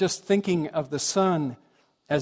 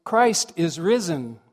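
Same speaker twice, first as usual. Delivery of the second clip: mild, slow happy proclamation; a touch of joyful Easter greeting; really happy; 4 dB louder, slower than usual. Retold or imitated. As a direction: announce good news gladly, drawn out. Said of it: "in a really happy voice".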